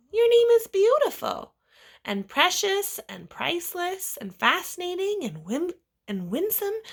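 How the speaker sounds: high, loud, gushing praise; adoring parent. Acted. Father praising his daughter's name, high and gushing. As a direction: gush over every word.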